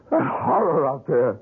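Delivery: slow, voice breaking with tears; near tears. Acted. Son confronting the sculptor about his parents' murder, slow and near tears. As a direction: choke out the words in grief.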